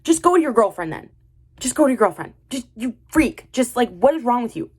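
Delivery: exasperated, punchy rant; crashing out. Real, not acted. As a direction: lash out in fed-up disbelief. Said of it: "I'm gonna crash out".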